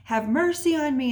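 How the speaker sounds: half-hearted imitated yell; retold yell. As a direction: call out pleadingly, imitating a man yelling. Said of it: "he's yelling out".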